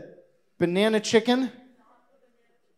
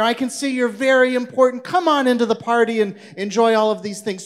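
gushing welcome; 3 semitones higher, 3 dB louder than usual. Acted. Host fawns over fancy-dressed Herschel.

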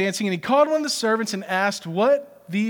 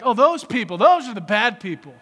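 self-righteous; 5 dB louder than usual. Retold or imitated. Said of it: "we're so external that we're like".

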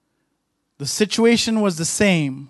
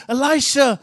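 higher, anxious pleading as the frightened servant; panicked servant; 3 semitones higher than usual. Retold or imitated. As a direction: voice the servant losing hope, pitched up. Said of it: "and he says".

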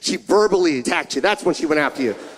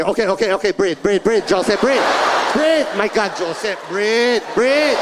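mock soothing mom. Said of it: "That's when she walks up to me".

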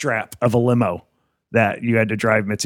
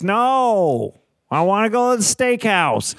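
put-on much higher whiny old lady refusal; mock Mitzi; 8 semitones higher, slower than usual. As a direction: play the stubborn boss, pitched way up. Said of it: "I'm like".

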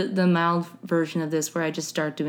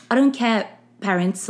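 put-on British accent, pitched up; mock British accent; 3 semitones higher than usual. Teen defying parents over the act, mock British accent. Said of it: "told people I was British".

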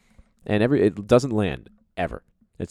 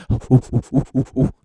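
excited ooh; 7 semitones higher, 6 dB louder than usual. Retold or imitated. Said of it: "she's like".

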